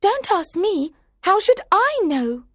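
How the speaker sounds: put-on very high, cheeky girl voice; rude. A narrator's reading. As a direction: answer back pertly in a high pitch. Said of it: "Alice was very rude to the Queen".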